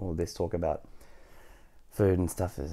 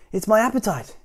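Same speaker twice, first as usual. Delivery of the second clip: high little character voice; Mister Skinny, timid patient; 13 semitones higher, 8 dB louder than usual. A narrator's reading. Mister Skinny explaining his trouble, high small voice. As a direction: lift the voice into a small plea.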